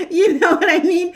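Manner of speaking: high, loud words through laughter; real laughing speech. Real, not acted. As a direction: keep talking while cracking up.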